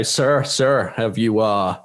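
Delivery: put-on a thin, barely there American accent; lightly mock an American aide. Podcaster voicing a White House aide in a mild American accent. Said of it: "this is my American accent".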